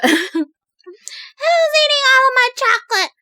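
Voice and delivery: high, put-on indignant grandma; grandma impression. Repeating the grandma impression after apologising, high and indignant. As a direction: wail it high like a grandma who's been robbed. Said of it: "good impression of her".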